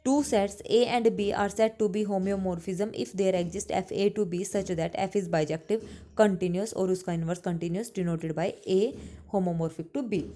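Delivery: slow, deliberate English definition read for note-taking; slow dictation. Acted. Teacher dictating a theorem to her class, slow and deliberate. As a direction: spell it out slowly so students can copy.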